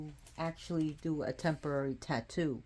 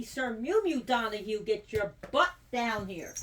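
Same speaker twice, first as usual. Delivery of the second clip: scolding call; 4 semitones higher than usual. Real, not acted. Calls the other cat down.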